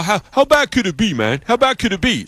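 high mock challenge; mock the skeptics, voice up high; doubting coworkers. Coworkers daring him to prove it, high mock voice. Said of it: "They're all".

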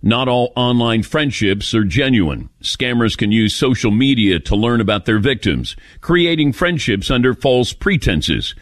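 smooth, even sponsor read; host reading a LifeLock ad, steady and upbeat. Acted. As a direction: sell it like a radio spot.

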